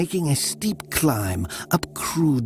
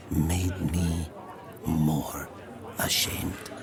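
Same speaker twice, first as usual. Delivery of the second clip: fading; 6 semitones lower, 7 dB quieter, slower than usual. A narrator's reading. Narrator fading to whisper.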